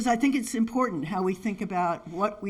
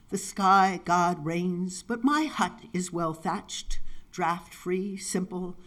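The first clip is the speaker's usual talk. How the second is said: slow recital, settling into stillness; poetry reading; slower than usual. Acted. Poet recites Godika's Songs of the Little Hut, spare poetry reading. Reads a poem aloud.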